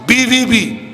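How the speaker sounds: ordinary delivery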